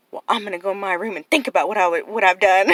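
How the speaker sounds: loud, laughing imitation of the nephew; laughing mock quote. Aunt laughing while quoting her nephew, loud and amused.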